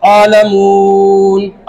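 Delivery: a slurred, drawn-out आलमून with the words swallowed; garbled rushed recitation. Shown as a demonstration. Imam rushing taraweeh, mock mumbled recitation. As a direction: mimic a hafiz mumbling the Quran. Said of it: "एक लफ्ज बाद में सबके समझ में आता".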